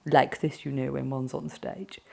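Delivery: affected posh stage English; mock your old posh put-on accent. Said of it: "I thought you had to be posh".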